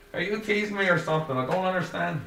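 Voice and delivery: ask, genuinely lost; confused Joey. A narrator's reading. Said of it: "in confusion".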